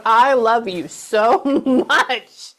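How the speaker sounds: drawn-out, slowed gushing love with a laugh; mock loving gush. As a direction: gush it slowly, laughing through it. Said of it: "Like that".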